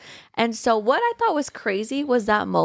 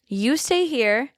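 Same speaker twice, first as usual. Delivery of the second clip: slow, higher-pitched retold plea; urgent plea; 4 semitones higher, slower than usual. Enzo tells her to stay, pleading slowly.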